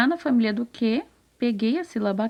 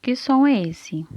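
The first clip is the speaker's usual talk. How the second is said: lively quiz question; 4 semitones higher, 5 dB louder than usual. Shown as a demonstration. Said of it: "Eu vou colocar de novo".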